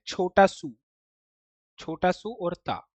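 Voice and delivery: छोटा सू और ता spelled out slowly, piece by piece; slow, deliberate spelling. Shown as a demonstration. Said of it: "इसको लिखने के लिए".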